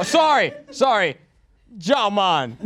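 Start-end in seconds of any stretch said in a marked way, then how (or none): 1.8-2.6 short stereotype Jamaican catchphrase; mock Jamaican accent. Comedian repeating his Jamaican bit after being corrected, mock accent. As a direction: toss out a broad Jamaican accent. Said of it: "Oh, Jamaican?".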